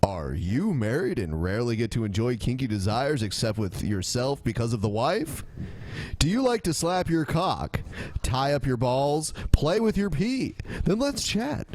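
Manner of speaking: smooth TV sales pitch; infomercial. Acted. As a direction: sell it like a late-night ad. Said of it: "It sounds like an infomercial".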